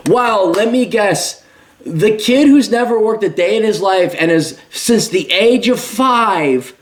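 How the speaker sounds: drip sarcasm as if quoting a smug critic; sarcastic mockery. Commentator mocking a critic's smug take, slow sneering voice. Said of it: "the Mises has said".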